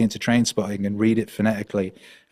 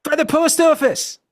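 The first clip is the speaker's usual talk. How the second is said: very high, loud, slow mock-Scottish; put-on Scottish accent; 5 dB louder than usual. Answering the girlfriend's question, high loud put-on Scottish. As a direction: bluff it slowly in hammed-up Scottish. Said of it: "I put on this Scottish accent".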